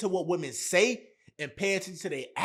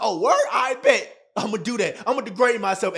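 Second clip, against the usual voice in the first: louder, mock-eager voice of a desperate man; mocking eager simp; 3 semitones higher, 5 dB louder than usual. Mocking the begging guy from the video, mock-eager and louder. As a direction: ham up his happy eagerness to beg. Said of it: "He's like".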